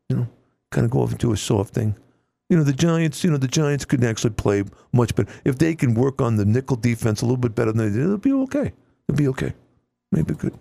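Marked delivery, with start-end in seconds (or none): 2.5-10.5 imitating a cantankerous radio host, a touch of Long Island; Mike Francesa impression. Host imitating his radio idol, lightly Long Island. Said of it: "you know, he talked like this".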